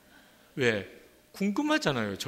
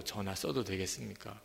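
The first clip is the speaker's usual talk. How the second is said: softer, hesitant polite request; sheepish guest asking permission; timid asking; 3 semitones lower, 7 dB quieter than usual. Retold or imitated. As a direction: ask meekly, almost apologizing. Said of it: "전화 하나 써도".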